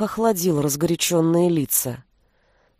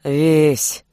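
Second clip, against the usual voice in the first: put-on low drawn-out drunk call; slurred low drunken voice; drunken drawl; 5 semitones lower than usual. A narrator's reading. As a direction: drag her name out drunkenly. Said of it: "протянул пьяным голосом Стрела".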